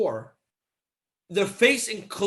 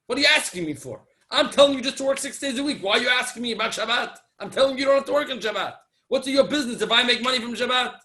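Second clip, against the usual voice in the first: higher, exasperated acted retort; mildly annoyed, pressing questions in imitation; irritated; 3 semitones higher, 3 dB louder than usual. Factory owner challenged about Shabbat money, irritated. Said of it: "the owner got all irritated".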